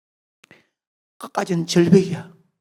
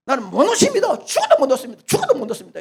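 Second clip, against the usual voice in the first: higher, pleading I won't let go; a young man clinging for life; desperate refusal; 5 semitones higher, faster than usual. Acted. Youth clinging to tree refuses.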